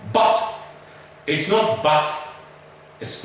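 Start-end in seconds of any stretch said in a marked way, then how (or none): 0.1-0.5 "But" with the short sharp vowel; correct but. Shown as a demonstration. Teacher repeating the right vowel, a clipped "But". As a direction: clip "But" short and hard. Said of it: "Let me say that once again".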